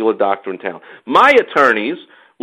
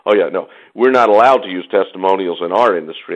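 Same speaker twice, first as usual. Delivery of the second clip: lower, know-it-all lecturing tone mocking lawyers; informative voice; 6 semitones lower than usual. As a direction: mimic a condescending expert explaining basics. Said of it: "in their informative voice".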